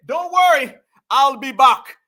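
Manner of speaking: a hint of the Terminator, loud; mock the movie line loudly; retold Terminator quote. Quoting a rapper's Terminator line, loud mock. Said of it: "He said".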